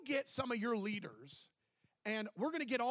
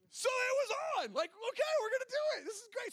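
much higher, eager burst of joy; excited. Real, not acted. Thrilled at the news.

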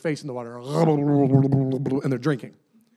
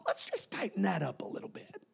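softer whispered scheming aside as God; 4 semitones higher, 9 dB quieter than usual. Acted. Preacher voicing God, whispering a sly plan. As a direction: drop to a conspiratorial whisper.

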